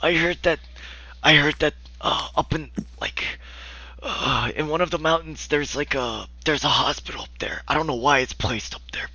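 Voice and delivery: put-on high, half-whispered old man voice; frail old man sharing a rumour. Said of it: "He looks like a very old man".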